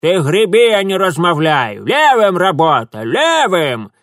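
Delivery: loud, high crone yelling orders; old woman yelling at the oarsman; bossy shout. Acted. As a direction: bark orders at the rower. Old woman bossing rower with cane.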